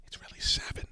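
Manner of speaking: sly whispered correction; whispered aside. Real, not acted. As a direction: whisper it like a secret. Conspiratorial aside about weeks left.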